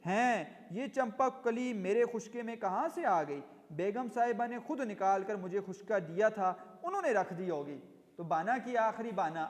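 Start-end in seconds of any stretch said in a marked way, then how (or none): 0.1-7.8 a servant caught out, feigning offence; mildly indignant denial; indignant protest. Acted. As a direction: read with a touch of outrage. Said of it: "ان کو غصہ آ گیا".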